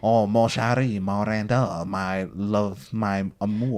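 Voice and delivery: bad French accent, lightly done; lover's line in a weak French accent. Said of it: "I'm trying to do a French accent".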